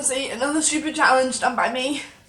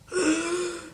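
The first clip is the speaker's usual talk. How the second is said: pained gasp; 5 semitones higher than usual. Real, not acted. Gasping from the chili burn.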